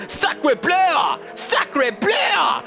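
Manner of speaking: high shouted French exclamation; french chef. Acted. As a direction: yell it like an excitable French chef. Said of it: "it hurts my throat".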